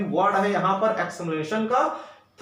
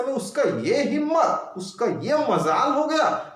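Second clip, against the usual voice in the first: scolding; 3 semitones higher than usual. Shown as a demonstration. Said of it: "उसको डांटते समय".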